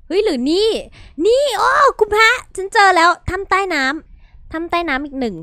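high and loud, thrilled to find the cave; over-the-moon gamer shout; excited discovery. Real, not acted. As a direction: squeal with delight at the find. Finds an underwater cave.

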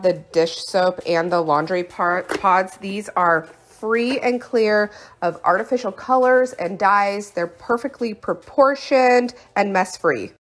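breathless, winded from chores; out of breath. Real, not acted. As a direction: talk while still out of breath. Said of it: "I'm out of breath".

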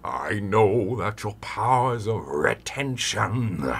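thin, quiet, goofy take; thin uncompressed vocal. Shown as a demonstration. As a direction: sing it cardboard thin and weak. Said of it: "it's gonna kinda sound like".

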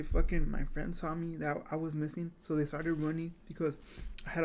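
muffled behind hand; speaking through hand. Real, not acted. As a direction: hand pressed over lips. Seen 3: Hand covers mouth 0.6–2.3 and 3.9–4.7, briefly lowered between.

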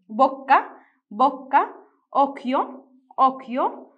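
loud, clear Italian words, each rising; word-list demonstration. Shown as a demonstration. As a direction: call out each word for the class, lifting the end. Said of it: "نبدأ نقرأ الكلمات".

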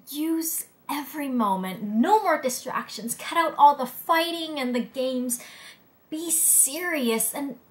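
earnest, emphatic closing plea; urgent exhortation. Acted. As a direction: drive each command home. Final urgent plea to humanity.

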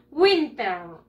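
WINTER drawn out, falling at the end; model pronunciation. Shown as a demonstration. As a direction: say "Winter" slowly for pupils to copy. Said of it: "Repeat after me". (pronunciación modelo, alargada)

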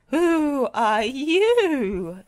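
high, loud, stretched-out question; stammered. A narrator's reading. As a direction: wail it slowly at a startling stranger. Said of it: "stammered Muck".

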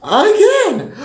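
high, tearful cry of frustration; about to cry. Real, not acted. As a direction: voice cracking with emotion. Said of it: "I'm about to cry".

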